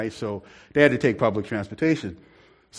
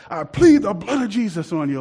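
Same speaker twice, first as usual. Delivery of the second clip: commanding rebuke; 6 semitones higher than usual. Retold or imitated. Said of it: "like that".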